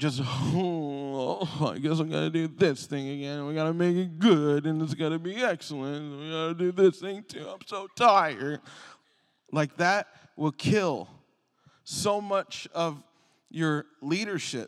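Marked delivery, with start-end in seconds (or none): 0.2-8.6 gloomy, glum, mopey complaining with drawn-out oh. Imitating someone doing a task without energy: mopey Eeyore voice. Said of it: "Eeyoreing it through".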